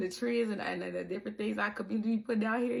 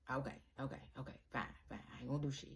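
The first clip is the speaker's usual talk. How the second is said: much softer, lower giving in; resigned self; 8 semitones lower, 14 dB quieter, much faster than usual. Retold or imitated. Her retold self giving up, soft and resigned. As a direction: sigh and give in quietly. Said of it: "You was like".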